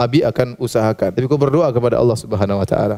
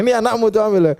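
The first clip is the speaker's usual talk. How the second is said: mock angry husband; 7 semitones higher than usual. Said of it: "seorang suami marah bilang".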